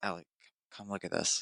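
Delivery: soft, breathy whisper. Retelling calling Allie over after leaving the bathroom, whispering. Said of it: "I kind of like whispered to her".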